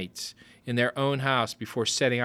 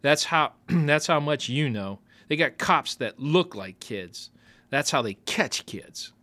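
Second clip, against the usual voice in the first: sneering; 2 semitones higher than usual. Acted. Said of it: "sneered Russell".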